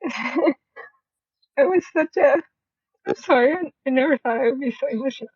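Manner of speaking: real tears held back with nervous laughter; moved, laughing through the emotion; getting emotional. Real, not acted. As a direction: voice catching as the emotion hits. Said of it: "I'm getting emotional".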